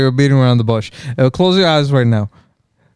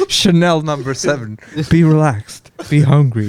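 sultry perfume ad. Retold or imitated. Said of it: "you sound like a perfume commercial".

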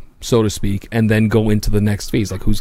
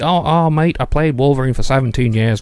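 mock Australian Hugh Jackman; faster than usual. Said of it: "Hugh Jackman said".

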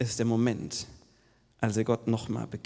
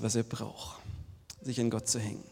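whisper; 6 dB quieter than usual. Real, not acted. Sermon emphasis.

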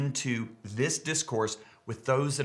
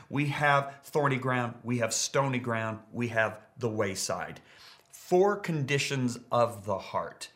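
usual speaking voice

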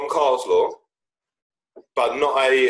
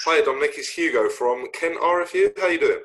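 disguised phone voice; 3 semitones higher than usual. Pretend. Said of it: "I can't do your normal voice".

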